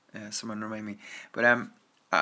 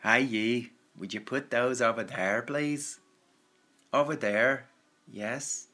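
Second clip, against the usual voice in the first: put-on Northern Irish accent; slower than usual. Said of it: "when you go to the north".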